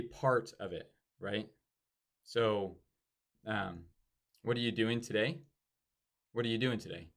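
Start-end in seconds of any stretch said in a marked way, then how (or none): 4.4-5.4 "today" rises at the end; rising pitch. Shown as a demonstration. Coach shows up pitch, rising at the end. 6.3-7.1 "today" falls at the end; falling pitch. Shown as a demonstration. Coach shows down pitch, falling at the end. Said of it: "down, right?".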